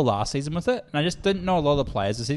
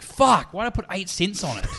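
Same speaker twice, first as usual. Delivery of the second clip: mock frustrated outburst; 6 semitones higher than usual. Bettor whose tiny bet won, mock frustrated. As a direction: kick yourself for betting small. Retold win on small bet.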